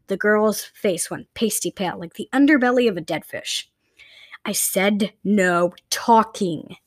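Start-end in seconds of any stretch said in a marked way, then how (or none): 4.4-6.8 barked. Acted. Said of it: "the woman barked".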